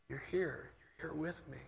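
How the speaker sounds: soft and intimate; relaxed, hushed prayer. Shown as a demonstration. Preacher praying to a God who is here, relaxed hushed prayer. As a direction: murmur it softly to someone right beside you. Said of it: "Maybe the most powerful prayer is a relaxed whisper".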